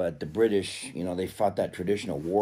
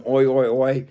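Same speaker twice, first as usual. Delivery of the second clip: put-on louder Australian-accented chant; 3 semitones higher, 6 dB louder than usual. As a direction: playfully imitate an Australian accent. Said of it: "I just love the accent".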